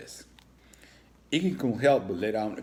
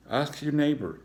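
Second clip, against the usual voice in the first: a gruff grunt of a principal; higher, loud gruff order; 7 semitones higher, 4 dB louder than usual. Acted.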